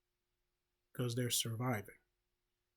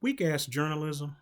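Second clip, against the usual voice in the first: punchy start on "weak ass"; blunt, unfiltered; 2 semitones higher, 6 dB louder than usual. Real, not acted. Vlogger voicing the uncensored thought from their head, bluntly. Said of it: "say the way I said in my head".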